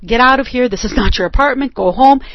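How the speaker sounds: loud, stern go home; telling him off. Retold or imitated. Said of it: "I'm saying".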